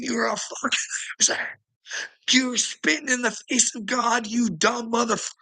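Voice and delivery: high, raging imagined tirade; furious rant. Retold or imitated.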